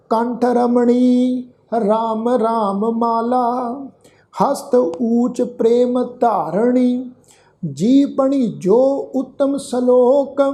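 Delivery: slow, measured verse with long-held vowels; scripture recitation. Acted. Teacher reciting a shalok to the congregation, slow sustained recitation. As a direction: recite each line slowly, sustaining the endings.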